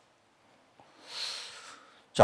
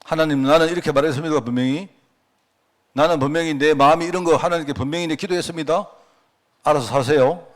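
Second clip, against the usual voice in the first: pushy demand; 3 dB louder than usual. Retold or imitated. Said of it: "협박이라고 말하면 좀 이상하고 강제".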